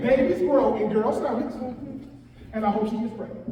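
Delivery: put-on each word of "Babies grow in girls' stomachs" said slowly and on purpose; slow it down and make them hear every word; slow, deliberate repeat. Shown as a demonstration. Speaker to the crowd, repeating after the laughter, slow and deliberate. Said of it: "I'm saying it".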